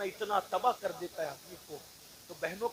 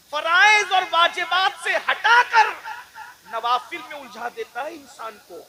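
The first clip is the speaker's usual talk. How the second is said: fiery preaching; 8 semitones higher, 12 dB louder than usual. Acted. Preacher warning his brothers, full-force preaching.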